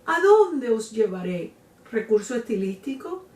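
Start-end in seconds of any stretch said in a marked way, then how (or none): 0.1-1.5 mother's anguished question, mildly acted; acted lament. La Llorona asks her children where to take them, lamenting. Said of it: "una mujer que lloraba y decía".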